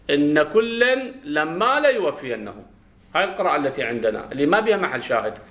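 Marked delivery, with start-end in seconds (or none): 0.1-2.6 slow recitation, "إن" as in-na and "لما" as lam-maa; drawn-out "إن كلا لما" with both doublings held; doubled reading. Shown as a demonstration. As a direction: recite slowly, holding the doubled n in "إن". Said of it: "بالتجديد".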